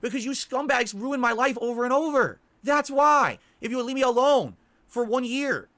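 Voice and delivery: loud, slow furious rant; angry outburst. Real, not acted. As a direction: yell at the trolls, words spaced out.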